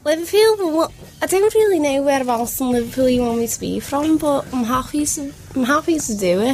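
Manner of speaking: obliging attempt at a Scouse voice; Liverpool accent. Shown as a demonstration. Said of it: "can we do Liverpool?".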